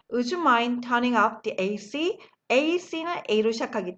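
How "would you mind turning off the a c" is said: very slow, every word laid out; slow model sentence. Shown as a demonstration. Teacher modelling the phrase slowly for the class. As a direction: spell it out slowly for learners to copy. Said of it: "다 같이 한번 읽어볼까요".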